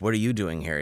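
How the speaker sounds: mild smartass echo, stress on "you"; smartass retort. Retold or imitated. Driveway owner to policeman, mildly cheeky comeback. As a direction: throw the question back, leaning on "you". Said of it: "I'm immediately being a smartass".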